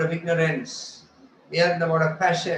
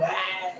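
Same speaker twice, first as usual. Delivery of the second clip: mock angry "aah"; angry yell; 3 semitones higher, 3 dB quieter than usual. Acting out people angry at everybody around, mock yell. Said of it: "they become very angry".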